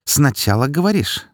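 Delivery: a voice not her own, venomous; a touch of grinding rage; strange cold voice. A narrator's reading. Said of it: "Чужим голосом я сказала".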